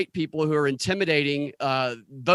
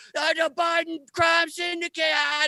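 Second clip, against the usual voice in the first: shrill, very high, ranting, screeching scream; 13 semitones higher than usual. Retelling what a man behind a press conference screamed: imitating a man screaming. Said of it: "just screaming like".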